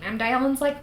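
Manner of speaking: ordinary talk, nothing marked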